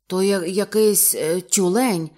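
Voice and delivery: hesitant, halting guess; unsure. Acted. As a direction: fumble for the word, not convinced. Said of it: "невпевнено промовив Ейб". (невпевнено, з запинками)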